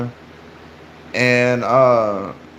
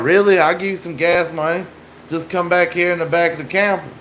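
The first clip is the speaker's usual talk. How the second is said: higher-pitched retold offer; mock eager coaxing, pitched up; imitated coaxing stranger; 5 semitones higher than usual. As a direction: lightly voice a stranger jumping at a chance. Stranger offering money as lure, retold.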